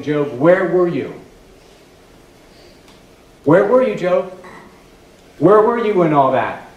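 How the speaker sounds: loud, rising divine challenge; thundering God. Acted. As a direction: demand an answer from Job.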